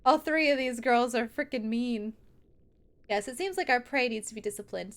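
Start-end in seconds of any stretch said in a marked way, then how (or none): 3.1-4.9 softer villain threat. Acted. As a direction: purr the punishment. Rereads the sister's threat.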